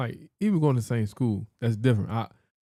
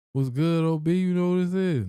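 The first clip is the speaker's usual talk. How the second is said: mock caller; 6 semitones higher, 3 dB louder than usual. Acting an unknown caller, pitch jumps.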